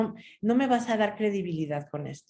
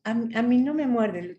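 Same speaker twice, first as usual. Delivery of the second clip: timid, weak; 3 semitones higher than usual. Retold or imitated. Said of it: "era muy débil al principio".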